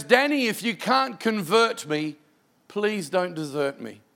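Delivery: slow, gentle plea; slow heartfelt pleading. Retold or imitated. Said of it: "it breaks your heart".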